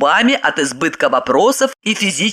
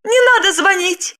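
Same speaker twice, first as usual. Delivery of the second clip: high-pitched tearful begging; tearful pleading; 13 semitones higher than usual. A narrator's reading. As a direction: beg as if in floods of tears. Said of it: "заливаясь слезами, попросила она". (слёзная мольба высоким голосом)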